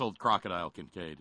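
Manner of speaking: put-on playful Aussie accent; name it like an Australian. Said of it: "to do my Australian accent".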